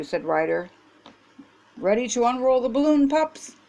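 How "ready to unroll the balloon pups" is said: bright, quick eager call to the pups; rally the pups, quick and high. Acted. Ryder calls to the pups.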